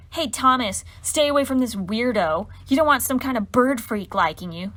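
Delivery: loud, sneering schoolgirl jab; mock him like a playground bully; mean taunt. Mean girl taunting Thomas.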